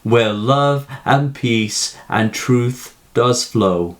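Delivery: reading verse aloud, line by line; a lightly performed poem reading; poem recitation. Acted. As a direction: recite the poem with pauses between lines. Recites the poem before analysis.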